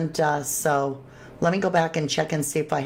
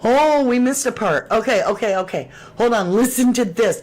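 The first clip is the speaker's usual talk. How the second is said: excited; 4 semitones higher, 5 dB louder than usual. Real, not acted. Excited to share clue.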